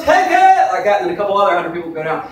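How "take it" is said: sharp high hammed-up yell; mock shout. Imitating the preacher shouting at his crowd. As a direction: fling the command out at the crowd. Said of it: "He goes".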